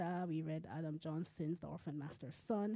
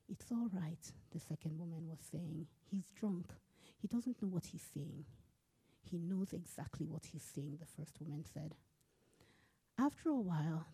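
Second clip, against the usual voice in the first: steady literary reading, characters lightly voiced; story reading. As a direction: read the chapter aloud to listeners. Author reads her novel aloud.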